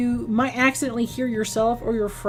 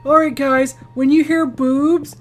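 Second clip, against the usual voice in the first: loud, imitating a friend warning the group; imitated player's announcement; 3 semitones higher, 6 dB louder than usual. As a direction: call it out to the guys, slower at the end. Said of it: "My favorite is him going like".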